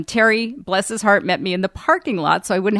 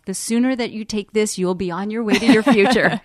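mock HR spiel. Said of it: "I've been Anna Kendricked".

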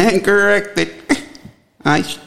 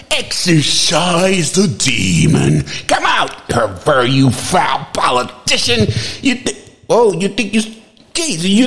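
mock exorcist.

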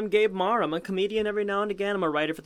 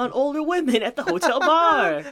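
higher-pitched put-on guy voice; cocky party-boy impression, pitched up; Ibrahim; 4 semitones higher, 4 dB louder than usual. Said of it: "It's me, Ibrahim".

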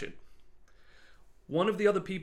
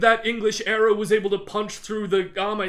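loud, higher, furious noble yelling; furious accusation; 6 semitones higher, 9 dB louder than usual. Retold or imitated. Ramsay screams at Archibald over the armor, furious. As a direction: hurl the accusation at him. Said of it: "Ramsay's like".

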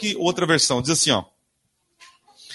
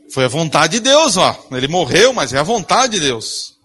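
louder, a preachy parrot of the cliché; mock pious excuse; 6 dB louder than usual. Preacher mimicking churchgoers who blame God, in a mock pious voice. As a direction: mimic people shrugging it off on God. People blaming God for losses.

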